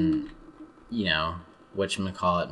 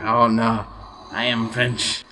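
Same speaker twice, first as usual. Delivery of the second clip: higher-pitched mock French protest; mock French accent; 4 semitones higher, 4 dB louder, slower than usual. Frenchman protests to his critic, mock French accent. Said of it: "I'm doing some joking imitations".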